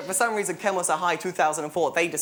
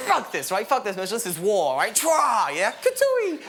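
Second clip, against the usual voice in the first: mock battle cry; 6 semitones higher than usual. Declaring war, mock battle cry.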